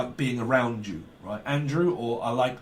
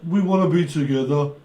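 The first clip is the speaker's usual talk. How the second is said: lightly put-on Brummie voice; Brummie accent; 4 dB louder than usual. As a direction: say it as someone from Birmingham. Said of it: "someone's Brummie".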